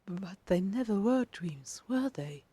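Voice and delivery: slow wondering question; a touch of awe. Acted. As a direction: realise it slowly. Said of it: "you ask in awe".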